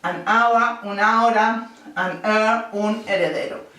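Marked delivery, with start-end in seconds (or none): 0.0-2.7 "An hour" and "an heir" with a silent H. Shown as a demonstration. Teacher models silent H words for the class. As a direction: drop the H and link the an. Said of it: "sino le añadimos an".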